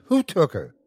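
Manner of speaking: high, insistent question; demanding. A narrator's reading. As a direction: press urgently for an answer. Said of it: "Kent demanded".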